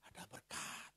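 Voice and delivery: hushed whisper of good news. Retold or imitated. Preacher whispering the church member's news. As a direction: breathe it out softly.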